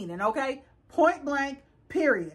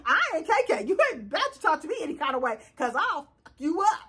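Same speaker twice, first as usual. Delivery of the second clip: mock threat; faster than usual. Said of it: "That's what she wanted to say".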